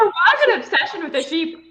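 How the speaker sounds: a laugh through the words; amused, half laughing. Real, not acted. Friends laughing at sheep theory.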